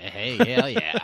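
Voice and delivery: excited surfer shout. Pretend. Surfer dude exclamation.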